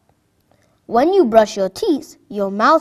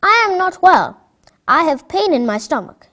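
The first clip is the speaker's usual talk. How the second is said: put-on sick child; 6 semitones higher than usual.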